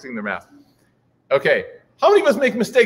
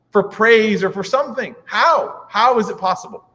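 amazed praise; 5 semitones higher than usual. Retold or imitated. Omar marvels tearfully.

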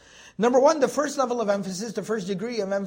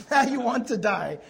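laughing; 3 dB louder than usual. Real, not acted. Laughing at his own joke.

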